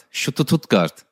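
Stuttgart said as ʃutututɡaʀt with extra u; Turkish pronunciation. Retold or imitated. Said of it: "die Betonung".

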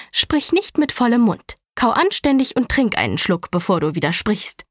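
a touch of a scolding hiss; lightly voiced stern aunt snapping; aunt scolds the nephew for talking with his mouth full, understated; mild snap. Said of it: "fauchte sie ihn an".

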